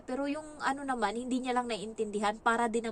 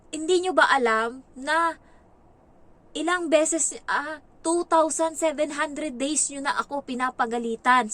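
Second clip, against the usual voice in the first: put-on higher, louder child's complaint; voicing the child; 5 semitones higher, 6 dB louder than usual. Nanny voices the boy's blackboard complaint to his parents, higher and louder. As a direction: plead like a worn-out kid. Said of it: "sabi niya".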